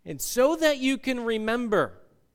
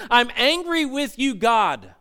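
mildly raised, acted anger; angry crying out; 5 dB louder, slower than usual. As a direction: aim a forceful complaint at God. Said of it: "crying out to God in context would be".

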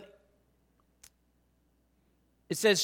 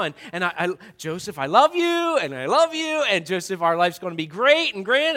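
gushing Mary. Retold or imitated. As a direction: gush with joy to your fiancé. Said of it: "She's like".

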